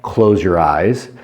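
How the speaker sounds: slow soft command. Shown as a demonstration. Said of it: "But if I say".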